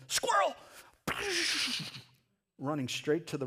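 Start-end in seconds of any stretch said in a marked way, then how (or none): 0.1-0.5 sudden high, loud yelp of excitement; dog abruptly spotting its prey; excited dog spotting squirrel. Acted. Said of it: "all of a sudden". 1.1-2.0 high whooshing mouth noise; imitated zoom noise. Imitating dog bolting after squirrel.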